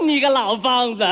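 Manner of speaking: laughing through it. Retold or imitated. Retelling son's cheeky words.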